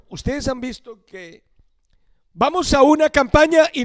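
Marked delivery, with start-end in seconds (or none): 0.1-1.4 whispered aside, slow. Real, not acted. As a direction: lean in and whisper it. Confidencia al explicar. (susurrando en confianza)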